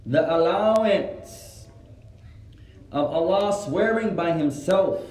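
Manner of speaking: slow, drawn-out dictation pace. Real, not acted. Teacher giving students a benefit to write, dictated slowly. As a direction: stretch the words out for note-takers.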